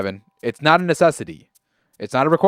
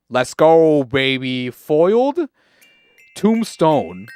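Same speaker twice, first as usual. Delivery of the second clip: excited cheer; 7 dB louder, much slower than usual. Real, not acted. Opening a card pack and hoping for a rare, loud excited cheer. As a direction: yell it like you just pulled a hit. Pulling cards hoping for rares.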